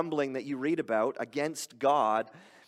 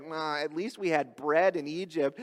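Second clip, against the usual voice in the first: grumbling voice; 3 dB quieter than usual. Acted. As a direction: grumble like a discontented crowd. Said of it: "That's my grumbling voice".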